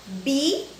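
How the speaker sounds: "bicho" as bi, long pause, cho; counting out syllables. Shown as a demonstration. Teacher showing pupils how to count syllables, split apart. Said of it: "Você vai contar".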